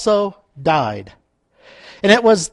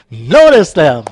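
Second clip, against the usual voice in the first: loud, punched repeat of NOTICE THEM; raised voice, playful insistence; mock yell; 8 dB louder, slower than usual. Shown as a demonstration. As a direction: bellow "Notice them" for comic emphasis.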